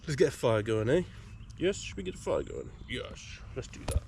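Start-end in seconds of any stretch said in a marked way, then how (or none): 1.6-4.0 high, soft sing-song pet talk; dog owner coos to her fluffy dog. Real, not acted. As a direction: coo it like asking a puppy.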